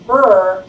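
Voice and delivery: "burr" as the bare br blend sound. Shown as a demonstration. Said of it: "delete the consonant blend".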